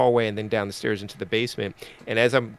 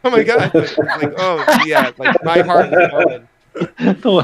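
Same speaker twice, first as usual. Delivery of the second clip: breathless panic; 6 semitones higher, 9 dB louder, slower than usual. Retold or imitated. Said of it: "I'm like".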